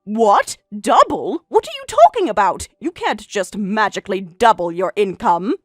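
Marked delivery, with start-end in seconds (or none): 0.0-2.7 incredulous. Acted. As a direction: scoff in disbelief. Disbelief at doubled income.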